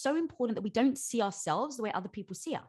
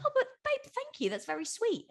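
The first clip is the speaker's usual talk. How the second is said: airy brush-off; 12 semitones higher than usual. Retold or imitated. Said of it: "And I was like".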